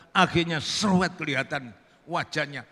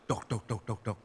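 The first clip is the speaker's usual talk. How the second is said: low, soft spoken knocks; imitated door knocking; 6 semitones lower, 8 dB quieter than usual. Santri at the woman's door, imitated knocking. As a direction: knock softly with your voice.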